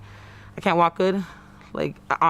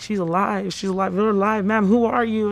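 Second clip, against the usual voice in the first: raised, urgent retelling of startled medics; retold alarm; 4 semitones higher than usual. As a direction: relay their astonished cries, pitched up a little. Retelling alarmed medics finding her alive.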